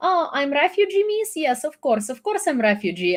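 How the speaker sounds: high mocking troll voice, a touch of accent; mocking Russian troll. Mocking the troll who asks if she's a refugee. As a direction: imitate the troll's sneering question. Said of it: "whatever Russian bot that is".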